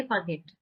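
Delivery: "forget" with its first vowel reduced, no clear O; unstressed O in forget. Shown as a demonstration. Teacher showing learners how "forget" is said, silent O. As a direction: say "forget" with the O not pronounced. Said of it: "ओ का उच्चारण नहीं होगा".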